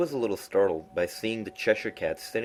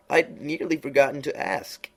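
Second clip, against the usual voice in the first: Cheshire Cat voice; 8 semitones higher, 5 dB louder than usual. A narrator's reading. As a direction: purr it out like a sly grinning cat.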